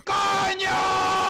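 high, sharp exclamation; frustrated shout. Real, not acted. Streamer fed up with the dead server, shouting. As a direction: blurt it out in exasperation.

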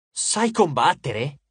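slow, disbelieving question; incredulous. Acted. Percy doubting the god, incredulous. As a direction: doubt he could ever fight. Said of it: "in tono così incredulo".

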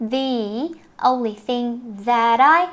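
"that I" run together; linked words. Shown as a demonstration. Teacher showing linking in "that I", demonstrative. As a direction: carry the t of "that" into "I". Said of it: "nối tiếp".

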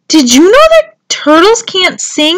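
high, loud call to friends below. A narrator's reading. Tudley up a tree to the other turtles, calling down. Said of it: "he called down to the other turtles".

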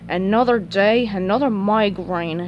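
understated weary grumble; slow down into a mild grumble; Squidward grumbling. Acted. Cashier in a bad mood arriving at work, mild grumble. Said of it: "he grumbled".

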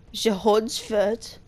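Holzschwert stretched out very slowly; slow, careful German word; sounding out German. Shown as a demonstration. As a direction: savour Holzschwert syllable by syllable. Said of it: "how to pronounce some of the words".

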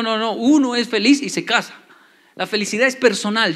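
ordinary talk

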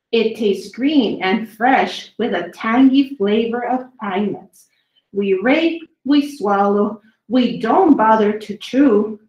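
lively storybook read, slowed on the big words; reading to children. A narrator's reading. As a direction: read each dinosaur poem to the kids with relish. Reading dinosaur poems to children.

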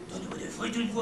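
quick mock-Belgian demo; Belgian accent. Shown as a demonstration. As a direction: joke Belgian French accent. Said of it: "c'est l'accent belge".

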